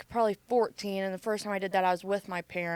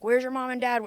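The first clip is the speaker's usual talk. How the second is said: mild mock yell, pitched up; retold yell; 4 semitones higher, 4 dB louder than usual. Officers demanding the parents from a child, mild imitated yell. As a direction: imitate an officer yelling, held back. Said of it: "like, yelling".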